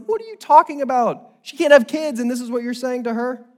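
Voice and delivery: high, loud incredulous protest; mock indignation. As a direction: scold him in high-pitched disbelief. Preacher acts indignation at the husband.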